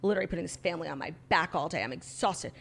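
low, quiet, fast and weary; weary baby voice. Retold or imitated. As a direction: voice a worn-out little girl. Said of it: "Kayla's like".

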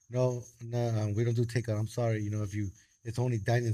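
low, soft mock apology; retold polite refusal. Restaurant guy turning away a takeout customer, quietly apologetic. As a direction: imitate a quiet, unbudging refusal.

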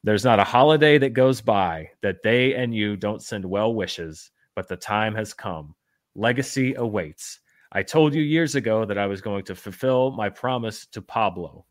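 mock-earnest letter reading; lightly dramatic recital; reading in own voice. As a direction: read the quote out with measured weight. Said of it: "I'm just gonna say it in my voice".

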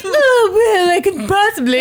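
high, giggly, unsure answer; laughing hesitant reply. Retold or imitated. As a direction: giggle through a shy maybe. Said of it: "When she's like".

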